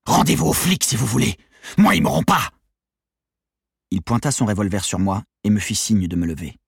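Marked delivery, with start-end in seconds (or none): 0.1-2.5 high, raving defiance; demented yell. A narrator's reading. Leader defying police and accomplices, demented yell. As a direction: rant it like a madman, pitched up. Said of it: "hurla-t-il à nouveau d'une voix démente".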